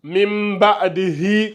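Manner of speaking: mim ba'dihi slowly recited in tajwid style; Quranic recitation. Shown as a demonstration. Teacher reciting slowly for online students. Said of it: "on va lire".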